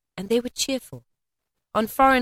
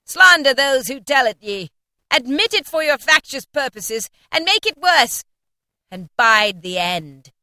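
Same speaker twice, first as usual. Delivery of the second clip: high, loud ghostly denunciation; echoing ethereal energy being; 6 semitones higher, 7 dB louder than usual. A narrator's reading. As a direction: rage like a wrathful spirit. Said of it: "cried the spirit".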